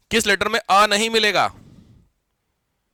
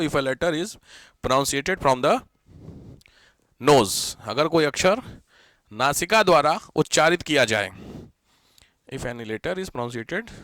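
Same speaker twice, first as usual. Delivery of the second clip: dictation; 4 semitones lower, 4 dB quieter, slower than usual. Real, not acted. Dictating a definition for notes.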